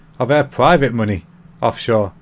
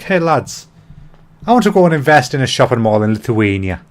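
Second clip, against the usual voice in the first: lightly put-on Irish accent, hailing the lads; bad Irish accent. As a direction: improvise a rough, jokey Irish accent. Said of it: "sorry for the accent".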